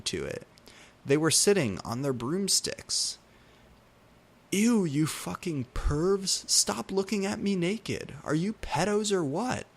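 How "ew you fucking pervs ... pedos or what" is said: screamed. A narrator's reading. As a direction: shriek at the peeping pervs. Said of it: "I screamed".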